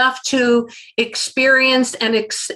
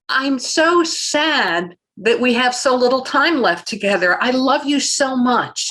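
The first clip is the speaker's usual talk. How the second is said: tender. Shown as a demonstration. Modelling what to tell the dying.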